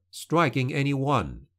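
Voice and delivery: plain reading voice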